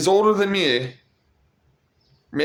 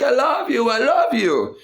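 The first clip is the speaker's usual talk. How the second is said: imitating the boy; 8 semitones higher than usual. The boy calling love to the vlogger, high voice. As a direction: sing it out like the kid. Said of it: "And he's like".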